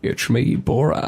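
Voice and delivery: soft, put-on foreign-comic voice; Borat impression. Host showing off an impression to co-host, hammed-up comic character. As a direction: introduce yourself quietly in a hammed-up accent. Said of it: "hear my Borat impression".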